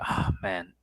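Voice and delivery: unvoiced-sounding breath of relief; relaxed sigh. Host hearing a Boston accent, relaxed sigh. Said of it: "I feel relaxed".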